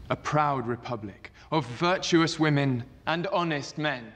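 formal senate oration; roman orator. Acted. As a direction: address the senators with gravity. Octavian addresses the senate.

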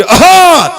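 loud high "aaha" throat-clear; mock throat-clearing. Old uncle clearing his throat to open the car window, loud hawk.

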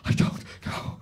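mock bewildered reply; Will, confused. Stag answering his friend from the back, mock confusion. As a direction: imitate a baffled, lost answer. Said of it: "real kind of confused look".

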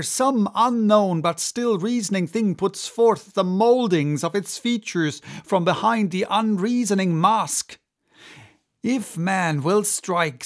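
intense, brooding sea captain; obsessed captain. Acted. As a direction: rant with growing obsession. Ahab's long tirade.

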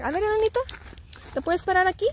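high, sweet request. Real, not acted. Mom asking Anita to stand here, high sweet coax. Directing toddler where to stand.

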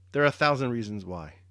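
pointed stress on "why" at the end; emphasis on WHY. A narrator's reading. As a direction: lay special weight on the final "why". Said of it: "laying special emphasis on the why".

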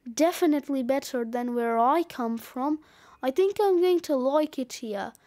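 a hint of a rude snowman moving in; slightly gruff and dismissive snowman; gruff, pushy snowman. Snowman character takes over the treehouse.

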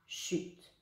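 unvoiced whisper for the rest; whispered rest cue; whispered chute. Shown as a demonstration. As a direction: breathe the word as a hush. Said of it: "ça fait bien noir".

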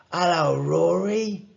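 put-on lifted, lively boy's greeting; visiting young friend. A narrator's reading. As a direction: greet your pal on arriving. Friend arrives, greets sick boy.

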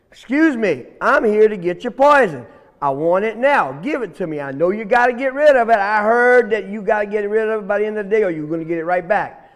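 loud, insistent little snake; pushy demand. Acted. Little snake badgering the plant for its poison, pushy and loud. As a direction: press the demand without letting up.

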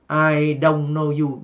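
"I don't know you" with a clipped Vietnamese "don"; again mouth "don't" Vietnamese style; Vietnamese-style English. Shown as a demonstration. Teacher repeating the Vietnamese-accented version for learners. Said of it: "âm hoàn toàn Việt Nam".

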